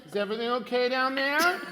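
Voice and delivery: voice of authority. Acted. Paladin calls down the sewer in an authoritative voice. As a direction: project authority down the stairs. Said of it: "my voice that transcends language".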